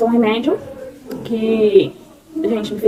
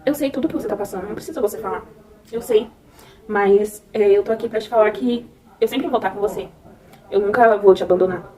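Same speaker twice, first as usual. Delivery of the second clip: soft, gently reassuring retold words; softly voiced tender reassurance; sweet voice; 3 dB quieter than usual. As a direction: quietly imitate a sweet, comforting voice. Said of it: "uma voz muito doce".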